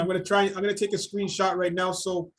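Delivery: choppy, warbling video-call sound; glitching audio. Real, not acted. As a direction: voice breaking up over a bad connection. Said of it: "Me too, you're very glitchy".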